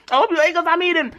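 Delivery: sing-song brag after a laugh; playful. Real, not acted. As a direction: repeat it with a grin in the voice. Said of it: "I hope you ate, 'cause I'm eating".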